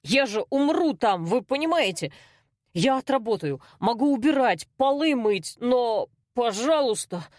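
plead, voice climbing in panic; a scared boy begging not to fight; desperate pleading. Acted. Vanya begs for his life.

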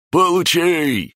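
high drawn-out battle cry; the green mokosh shouts at his card rivals. A narrator's reading. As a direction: yell it out in triumph. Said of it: "закричал зелёный".

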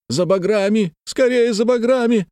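high frantic order; urgent calling out. A narrator's reading. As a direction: call for help across a dark garden. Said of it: "слышался голос Ипатова".

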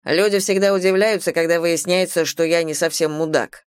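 teasing, lightly voiced young man; cocky young man. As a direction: play a cocky bad boy. Tyler's lines voiced.

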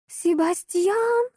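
high, slow drawn-out cry of a name; desperate cry. Acted. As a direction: call him out in panic. Крик над братом. (отчаянный крик)

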